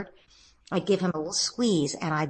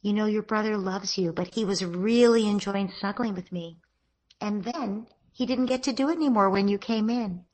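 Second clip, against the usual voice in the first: tender comforting. Shown as a demonstration. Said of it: "taking her into my arms and say".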